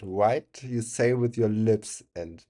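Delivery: slow, careful "white" with rounded lips; careful demo. Shown as a demonstration. Streamer to chat, slowly teaching the English "white". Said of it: "this is very technical".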